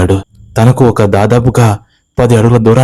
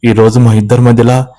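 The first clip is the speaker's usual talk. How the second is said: mildly tearful aunt's voice, higher; a hint of sobbing in a worried plea; 4 semitones higher than usual. Aunt tells Siddhu her husband ran off, mildly tearful. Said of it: "వెక్కి వెక్కి ఏడుస్తూ".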